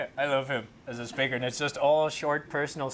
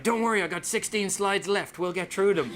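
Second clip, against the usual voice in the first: mock reassurance; 6 semitones higher, 3 dB louder than usual. Acted speaker carrying on through fire alarm.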